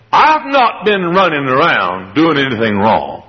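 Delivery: slow, innocent-sounding lie; sly denial. Acted. Servant lying to his master, slow innocent denial. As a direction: play the liar all innocence. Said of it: "He said".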